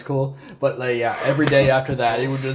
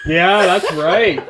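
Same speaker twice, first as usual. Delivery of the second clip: laughing; 4 semitones higher, 6 dB louder, much slower than usual. Real, not acted. Laughing agreement at banana story.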